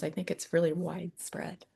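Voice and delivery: soft breathy whisper. Real, not acted. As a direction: let it fall into a whisper. Earnest point dropped to whisper.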